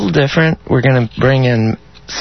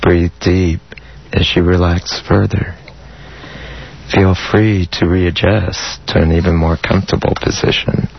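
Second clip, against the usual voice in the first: guided meditation; 3 semitones lower than usual. Acted. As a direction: ease them into calm with long pauses. Leads an erotic guided meditation.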